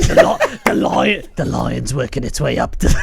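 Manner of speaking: laughing mock Australian Outback voice; half-shouted Outback Australian impression; broad Australian accent. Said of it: "trying to do, like, the Outback voice".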